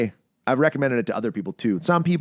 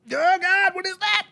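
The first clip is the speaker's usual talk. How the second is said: mock disgust. Took a haul of tobacco spliff.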